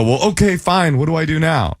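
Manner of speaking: high, grudging acceptance; high resigned voice. Retold or imitated. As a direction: give in grudgingly. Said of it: "And I go".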